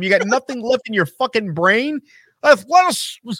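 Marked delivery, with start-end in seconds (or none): 2.4-3.3 mocking Jim Ross. Ranting about Jim Ross, mock high announcer word. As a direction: sneer the word like the commentator. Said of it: "Stop saying athleticism".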